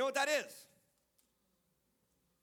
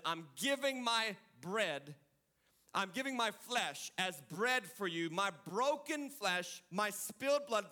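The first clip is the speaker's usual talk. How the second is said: tender slow reading; slower than usual. Acted. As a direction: give it gently and slowly. Voices Jesus.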